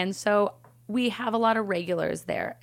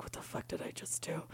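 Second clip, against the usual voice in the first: barely voiced, very soft whisper; hushed mock mortification; stunned whisper; 21 dB quieter than usual. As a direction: whisper it to yourself in horror. Retold stunned moment alone in corner.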